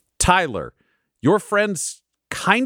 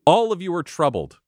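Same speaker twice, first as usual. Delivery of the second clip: solemn narration. A narrator's reading. DM's solemn scene setting.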